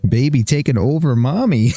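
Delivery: put-on hesitant stab at an Asian accent; rough Asian accent. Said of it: "she says in an Asian accent".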